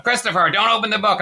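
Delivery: impersonated mother cutting in loudly; smoker mother's voice. Retold or imitated. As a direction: warn your child as mom would. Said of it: "I always wanna do her voice".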